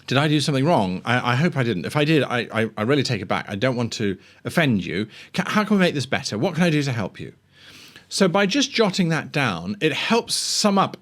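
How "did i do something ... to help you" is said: a light hint of a timid, apologetic NPC; meekly eager to please, lightly voiced; passive NPC. Shown as a demonstration. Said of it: "Whereas a passive might be".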